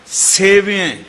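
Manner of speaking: ਸੇਵਿਐ with a short i after ਵ; careful correct pronunciation. Shown as a demonstration. Preacher teaching scripture reading, careful short-i ਸੇਵਿਐ. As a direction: say ਸੇਵਿਐ slowly with short sihari vowel. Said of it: "ਇਹਦਾ ਪਾਠ ਸੇਵੀਐ ਨਹੀਂ ਕਰਨਾ".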